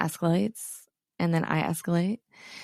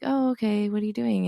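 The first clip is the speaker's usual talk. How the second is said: patient; 3 semitones higher than usual. Retold or imitated. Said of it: "the first time I was a bit more patient".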